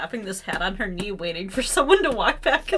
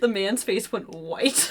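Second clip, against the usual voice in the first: usual speaking voice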